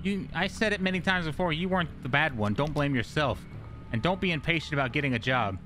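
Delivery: a gentle mother soothing her son. Acted. Voices the mother on phone.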